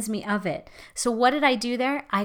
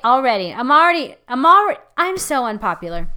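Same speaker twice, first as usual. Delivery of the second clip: building shout; 2 semitones higher, 8 dB louder, faster than usual. Acted. Preacher's mock exasperated outburst.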